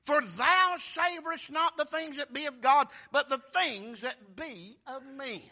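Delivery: loud scripture rebuke. Retold or imitated. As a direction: thunder the verse out. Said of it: "he rebuked Peter, saying".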